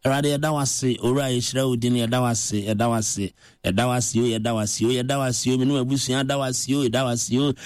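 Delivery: rattled-off prayer of thanks on a level pitch; mock perfunctory thanksgiving; unspecific thanks. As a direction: repeat it by rote, barely varying the tune. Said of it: "we do not specify".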